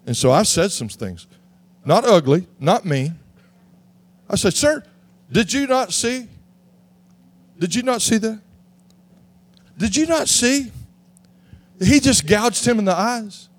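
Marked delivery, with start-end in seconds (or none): 4.5-13.5 exasperated appeal to the ref. Retold or imitated. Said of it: "don't look at me in that tone of voice".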